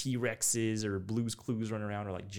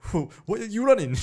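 put-on Ugandan accent; 13 semitones higher, 13 dB louder than usual. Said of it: "be like".

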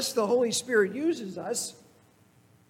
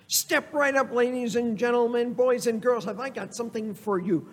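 circus hawker; 3 semitones higher than usual. Acted. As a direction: sell it like a fairground huckster calling the crowd. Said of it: "sound like a circus hawker".

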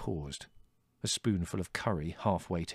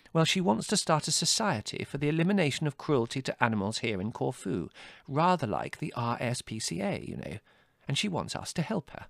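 higher, fussing sympathetic voice; earnest, kindly mother; 7 semitones higher than usual. A narrator's reading. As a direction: explain the good cause with concern. Mother explains the visitor's plan.

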